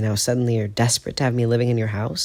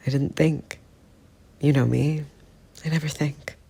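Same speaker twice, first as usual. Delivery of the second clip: higher, halting, breathless pleading; 5 semitones higher than usual. Acted. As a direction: stumble over the words, desperate. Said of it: "Sirius sounds breathless".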